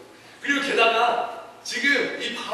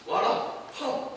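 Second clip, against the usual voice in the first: charismatic command; 5 semitones higher, 4 dB quieter, much slower than usual. Acted. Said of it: "완전 이렇게 카리스마 있게".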